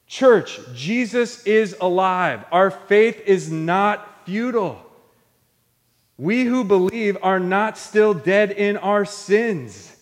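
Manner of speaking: lightly acted apostolic proclamation; apostles preaching. Apostles assuring the church of a living Savior, preaching. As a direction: call out to the church, then declare it with measured conviction. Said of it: "the apostles just keep preaching".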